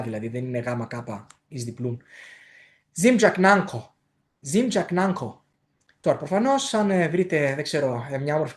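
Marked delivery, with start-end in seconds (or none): 2.9-5.4 ΖΙΜΤΣΑΚΝΑΝΓΚΧΟ slowly, nasal ng then aspirated k; slow model of ΖΙΜΤΣΑΚΝΑΝΓΚΧΟ; careful pronunciation. Shown as a demonstration. Teacher putting the sounds together, slow careful pronunciation. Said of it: "Πρέπει δηλαδή αυτό να το πείτε".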